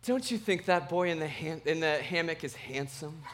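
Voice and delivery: lightly imitated innocent six-year-old daughter; a hint of a little girl sweetly asking Dad. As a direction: gently mimic a small child's innocent question. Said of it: "it's in that voice".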